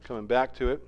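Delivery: soft unvoiced whisper; whispered aside. Real, not acted. Preacher whispering an aside to the congregation. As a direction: breathe the words out, barely there.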